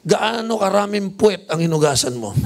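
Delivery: cheeky question, laughing through it; laughing punchline. Retold or imitated. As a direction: deliver the joke with a laugh. (natatawang biro)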